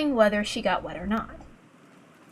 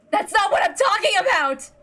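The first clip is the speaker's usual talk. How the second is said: indignant retort; 10 semitones higher than usual. Acted. Ava snaps back.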